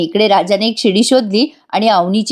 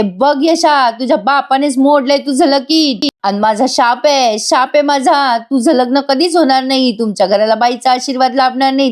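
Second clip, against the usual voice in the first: aunt cursing; 4 semitones higher than usual. Retold or imitated. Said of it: "मोठ्या मोठ्याने ओरडते".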